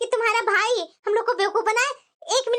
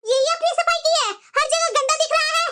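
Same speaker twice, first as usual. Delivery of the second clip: indignant scolding; 4 semitones higher than usual. Acted. Sister-in-law finds her room badly cleaned, indignant scolding.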